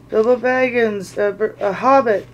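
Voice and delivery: mild mock fright with a stumble; a nervous stammered answer; frightened stammer. Bilbo to the trolls, a mild frightened stammer. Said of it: "shaking all over".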